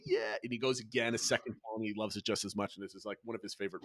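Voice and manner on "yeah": put-on very high, thrilled child whoop; imitating joyful child scream. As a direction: squeal it like a kid on the loop. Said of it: "screams of joy".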